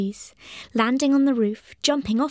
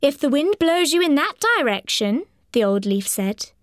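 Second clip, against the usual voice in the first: put-on raised, wise old leaf voice; dry crackly falling leaf; 4 semitones higher than usual. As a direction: warn him like an ancient leaf.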